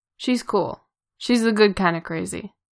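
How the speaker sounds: ordinary delivery, nothing marked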